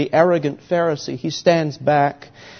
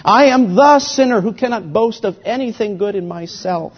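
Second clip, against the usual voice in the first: anguished confession; 5 semitones higher, 4 dB louder than usual. Acted. Preacher speaking as the tax collector, anguished before God. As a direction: confess it as the desperate sinner. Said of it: "He's saying to God".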